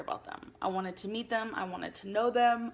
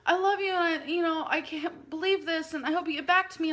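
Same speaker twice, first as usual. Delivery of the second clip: higher, mock gushing girls; gushing cousins; 6 semitones higher than usual. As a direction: play it up like excited cousins. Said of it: "these other girls just like".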